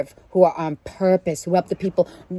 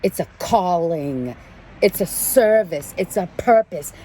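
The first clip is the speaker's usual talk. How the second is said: slow retold declaration. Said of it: "and I said".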